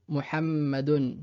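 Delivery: Muhammadun dit lentement avec m doublé; Muhammadun, bien marquer la shadda; doubled m. Shown as a demonstration. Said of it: "donc c'est le prénom". (Muhammadun lentement, m double)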